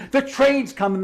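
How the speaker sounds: high, loud mock warning shout; hammed-up comic alarm; panicked yell. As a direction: shout the warning at the top of your lungs. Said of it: "He's screaming at the top of his lungs".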